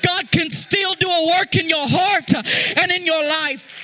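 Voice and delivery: half-sung preaching rising over the music; impassioned preaching. Acted. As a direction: preach it like a song, building up.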